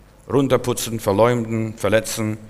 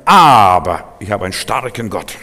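louder, booming declaration; loud proclamation; 9 dB louder than usual. Real, not acted. Preacher declares to the church his God is strong, loud. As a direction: proclaim it over the congregation.

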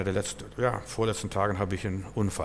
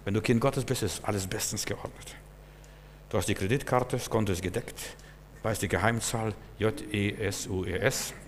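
much softer, intimate aside; hushed confiding; 6 dB quieter than usual. Real, not acted. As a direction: let them in on a secret. Preacher drops voice for secret.

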